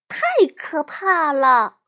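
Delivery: high, loud, drawn-out dread; frightened exclamation. A narrator's reading. Little sister reacting to a scary cover, frightened. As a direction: cry out in acted horror, slowly.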